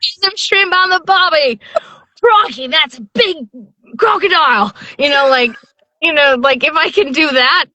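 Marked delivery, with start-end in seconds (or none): 0.0-1.6 hammed-up Australian, pitched high; Aussie accent. Narrator riffs on the Aussie bit in a broad Australian accent. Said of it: "Aussie accent". 2.2-4.7 high, hammed-up Australian crocodile hunter; Aussie accent. Narrator jokes with the host in a broad Australian accent. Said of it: "Aussie accent".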